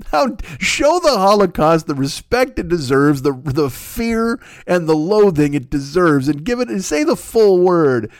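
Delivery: slow deliberate insistence; earnest slowed plea; slow, emphatic. Real, not acted. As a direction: lean on each word, slowly. Demanding respect for word.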